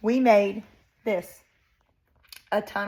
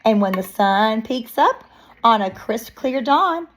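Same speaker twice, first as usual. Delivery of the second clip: put-on expressive read-aloud to young children; picture-book narration; 5 dB louder, slower than usual. Reading a bear story to children, lively narration. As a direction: read it like story time, lilting.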